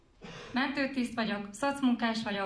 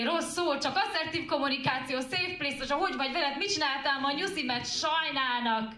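higher, rattled-off list of sweet promises; mocking list; 3 semitones higher than usual. Poet listing how men would pamper abused women, mocking. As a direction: reel off the caring gestures in a higher, hurried voice.

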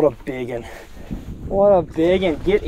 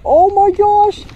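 high, loud, rising squeal of excitement; real thrilled shriek; excited pleading; 14 semitones higher, 6 dB louder than usual. Real, not acted. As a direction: beg the fish to bite, then squeal. Fish striking the lure.

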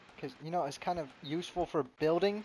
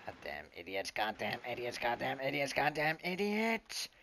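building mock insult; 2 semitones lower than usual. Repeated insult growing louder.

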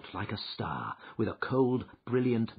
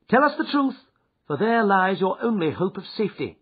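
Holmes, stern and cold, a little louder; 12 semitones higher, 9 dB louder than usual. Acted. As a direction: demand the truth without pity. Holmes interrogates Ryder.

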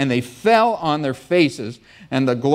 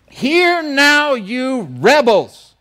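high, loud and very slow shout at the rebels; angry rebuke; 8 semitones higher, 4 dB louder, much slower than usual. Acted. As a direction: bellow it out, dragging each word. Moses rebukes the people.

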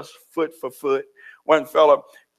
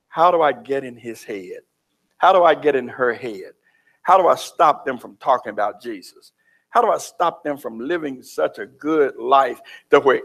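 lower, plotting voice of the devil; devil scheming; 5 semitones lower than usual. Acted. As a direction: think aloud as the devil plotting. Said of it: "The devil's trying to figure you out".

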